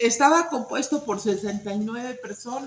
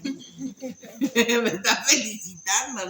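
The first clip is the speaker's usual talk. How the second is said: slow, laughing voice of a smug little donkey; preacher voicing the donkey, slow and laughing; pleased donkey; much slower than usual. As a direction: let the donkey gloat through a laugh. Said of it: "el burrito creyó que eran para él".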